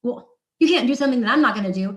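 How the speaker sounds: retold protest. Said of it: "And I was like".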